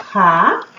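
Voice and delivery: "Ratinho" as Ra, long pause, ti, pause, nho; very spaced-out "Ratinho", one syllable at a time. Shown as a demonstration. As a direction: spell out "Ratinho" in three isolated syllables. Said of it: "eu abro três vezes".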